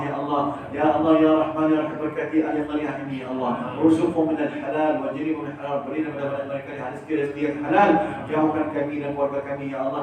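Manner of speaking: devout, rhythmic prayer with rising calls of Ya Allah; chanted Malay and Arabic doa; closing prayer. Acted. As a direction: lead the congregation in heartfelt supplication.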